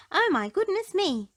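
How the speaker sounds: high, loud squeak of alarm; tiny mouse squeaking in alarm at the pig. A narrator's reading. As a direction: squeal it out in a fright. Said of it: "squeaked little Miss Tiny in alarm".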